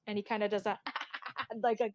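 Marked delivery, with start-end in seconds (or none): 0.8-1.6 high-pitched, softer cackling laugh; bird cackle. Acted. Game master shows the pirate bird's laugh, cackling. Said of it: "like, bird cackle".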